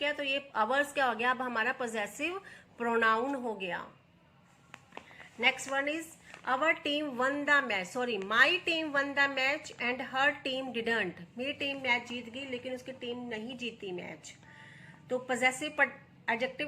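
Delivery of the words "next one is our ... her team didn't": very slow, every word laid out for students; slow dictation read. Shown as a demonstration. Teacher reading the example to her students, slow and deliberate. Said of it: "teacher reads example sentence".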